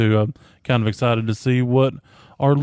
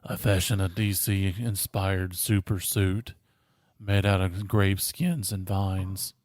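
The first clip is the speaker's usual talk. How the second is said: movie trailer voice; 4 semitones lower, 9 dB quieter, slower than usual. Acted. Continues the trailer bit.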